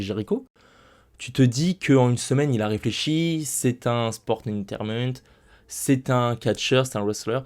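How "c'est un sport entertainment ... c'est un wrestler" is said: slow, deliberate English accent; English accent attempt. Shown as a demonstration. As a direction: try to sound American. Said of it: "Mon accent anglais est horrible". (accent anglais approximatif et appuyé)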